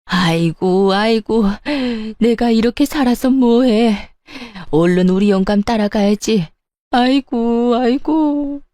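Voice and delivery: theatrical, tearless lament with drawn-out moans; mock wailing.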